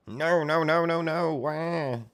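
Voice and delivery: high, frantic little fairy pleading; tortured fairy begging in a high squeak; squeaky panicked fairy. Retold or imitated. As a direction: squeal no over and over in a tiny voice. Fairy panicking while being tortured.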